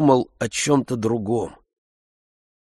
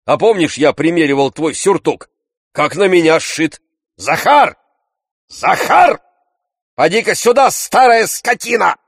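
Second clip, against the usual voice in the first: high, loud shouting call; Tarantyev shouting; 9 semitones higher, 6 dB louder than usual. A narrator's reading. Tarantyev yelling for old servant Zakhar, loud high shout. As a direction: bellow for the servant across the house. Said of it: "кричал Тарантьев".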